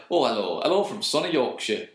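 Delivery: mock-cheery sarcastic hello; sarcastic greeting. Host imitating people who say sunny, lightly sarcastic. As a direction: greet with dry irony. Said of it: "it's usually sarcastically".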